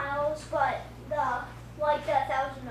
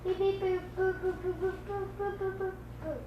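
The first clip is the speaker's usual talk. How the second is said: fake foreign language; 5 semitones higher, 4 dB louder than usual. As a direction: beep boop gibberish, building louder at the end. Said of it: "does he make Legos".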